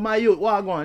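lightly imitated Jamaican neighbour; Jamaican accent. Neighbour greets the visitor, lightly imitated Jamaican accent. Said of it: "some Jamaican guy".

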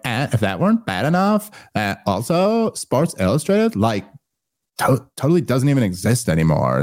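mocking Valley Girl, lilting and airy. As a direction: imitate a bored teen Valley Girl. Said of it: "Valley Girl voice".

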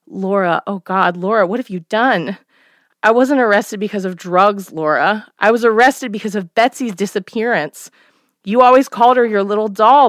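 lightly voiced mother, growing alarmed; a hint of a dawning-horror mother; horrified mother. Mother realizing what her daughter did, lightly horrified.

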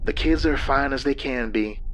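a hint of a tired wife; lightly voiced, worn-out woman; weary woman. Lynn's voice in story.

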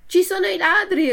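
high, loud and fast alarm; urgent alarm. Acted. Pinocchio warning the farmer of thieves, urgent and high.

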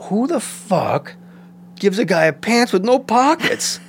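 hammed-up outraged complaint; mock outrage. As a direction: rant at wardrobe in disbelief. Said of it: "And I was like".

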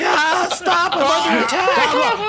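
high, laughing mock panic; panicked scream. Game master voicing the guard being bitten, high laughing mock panic. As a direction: squeal for help, half laughing. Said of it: "the guy starts screaming".

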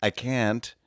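mock British complaint; British person. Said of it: "a British person being like".

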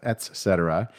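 "et cetera" said as ET-SET-er-uh; distinct T. Shown as a demonstration. Podcaster correcting the slurring, "et cetera" with clear t. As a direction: sound the t in "et cetera". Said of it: "is pronounced et cetera".

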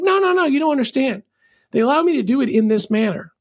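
no-no-no, you don't get it; mock pushy fan explaining; insistent customer. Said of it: "is all fired up".

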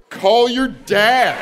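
put-on high, long-drawn white-girl phrase; confident white girl. Comedian answering pregnancy news, mimicking confident white girl. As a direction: dismiss it with breezy, stretched-out confidence. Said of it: "white girl confidence".

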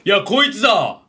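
lightly voiced blustering commuter; indignant older man. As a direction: complain to the station staff in mock indignation. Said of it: "ちょっとおじさんやって".

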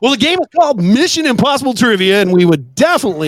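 lightly voiced radio host; a hint of an announcer's read. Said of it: "God, your radio voice".

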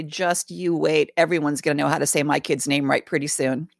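smug mom. Pretend. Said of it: "lean back and cross my arms and say".

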